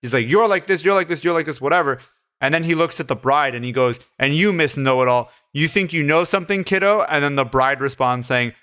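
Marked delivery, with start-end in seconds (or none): 0.3-2.0 higher-pitched mock rant, no real yell; half-hearted imitation of lashing out; retold yelling. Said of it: "starts yelling at every single person". 4.2-7.0 mild mock condescension, rising in pitch; lightly acted put-down; retold snapping. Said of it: "Hamid snaps".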